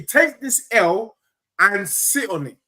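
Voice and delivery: loud, high jeer; mocking taunt. Real, not acted. Jeering the Spurs fan, loud slow taunt. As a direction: rub it in loudly.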